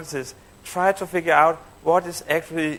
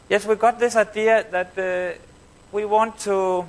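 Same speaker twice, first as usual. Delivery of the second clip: higher-pitched pitch left hanging before the reveal; cliffhanger pause; 4 semitones higher than usual. Retold or imitated. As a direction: quote her haltingly, suspended on "to". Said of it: "then this long pause".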